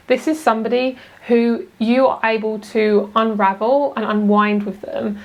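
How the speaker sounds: usual speaking voice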